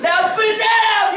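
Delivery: high, stretched-out mock blame; hammed-up scolding to placate a child; pretend scolding. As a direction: drag out a play telling-off. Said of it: "이러면서 해줘야 돼".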